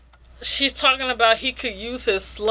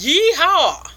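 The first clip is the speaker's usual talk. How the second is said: high Southern yeehaw; hammed-up Southern weevil cheer; mock cowboy whoop; 7 semitones higher, 3 dB louder than usual. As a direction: holler it like a rodeo cowboy, pitched up. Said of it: "I guess he's a Southern Weevil".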